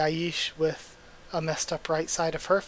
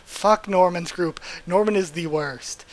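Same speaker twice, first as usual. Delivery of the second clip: pissed off. Real, not acted. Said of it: "I'm so pissed off at Norman's group now".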